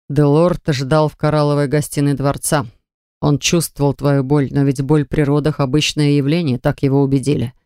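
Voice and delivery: steady, measured man; calm man's voice. Acted. Anvejm's long account.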